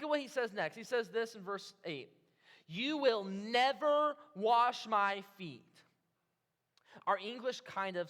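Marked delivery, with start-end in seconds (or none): 2.7-5.6 slow, louder, drawn-out refusal; firm refusal. Acted. Simon refusing Jesus, firm and emphatic. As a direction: put your foot down, stretching "never". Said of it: "he puts his foot down here".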